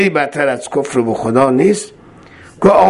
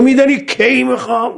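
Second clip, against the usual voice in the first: high-pitched testing question; voiced riddle, pitched way up; quizzing; 10 semitones higher than usual. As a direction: pose the riddle high and pointed. Bohlul quizzes Harun in acted dialogue.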